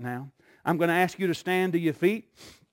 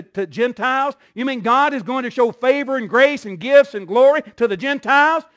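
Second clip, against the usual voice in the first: rising, disbelieving questions; can't believe what you're hearing, protest it; mock-outraged listener, higher and more forceful; incredulous indignation; 5 semitones higher, 6 dB louder than usual.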